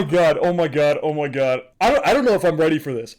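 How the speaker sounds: can't contain it; fast excited gushing; overwhelmed excitement. Real, not acted.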